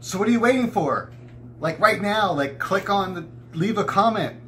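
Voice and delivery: high-pitched, goofy urging voice; high put-on pitch, stretching the final words; put-on hype voice. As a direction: urge them on in a silly high voice. Hypes viewers in put-on voice.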